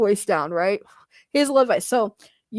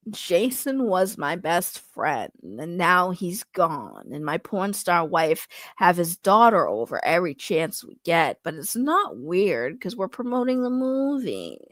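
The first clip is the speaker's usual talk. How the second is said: reading as Aaron; 3 semitones lower than usual. Acted. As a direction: read it like a laid-back man keeping his cool. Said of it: "let me read this as Aaron".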